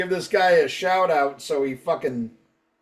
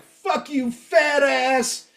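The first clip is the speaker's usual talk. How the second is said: high-pitched mock fan outrage; retold angry threat; 9 semitones higher, much slower than usual. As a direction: hurl it as a hammed-up irate fan. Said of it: "this was fucking brutal".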